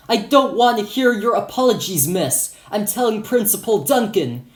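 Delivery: high, loud cutting-off; acted angry shout. Security guard cutting off teacher, shouting. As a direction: shout her apology down. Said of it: "he cut her off and shouted".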